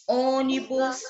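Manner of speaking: "ônibus" starting on a closed "ô"; closed vowel. Shown as a demonstration. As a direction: keep the stressed first vowel of "ônibus" closed. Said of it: "a vogal tem o som fechado". ("ônibus" com o "ô" fechado)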